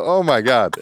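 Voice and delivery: retold shock, laughing high; laughing surprise. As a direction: gasp it out through a laugh. Surprised by wife at door.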